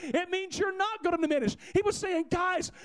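impassioned preaching. Real, not acted. Preacher urging the congregation to grasp the Lord as shepherd, full-force preaching. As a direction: drive it home to the congregation.

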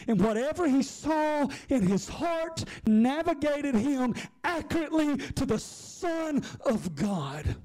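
high, slow, climbing sermon cadence; preaching at full force. Acted. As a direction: lift the congregation, drawing each word out.

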